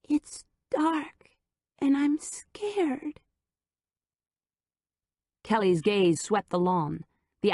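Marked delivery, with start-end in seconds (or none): 0.0-3.2 put-on high, slow toddler voice; tiny voice afraid of the dark; scared little child. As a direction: sound small and frightened. Child voice on the line.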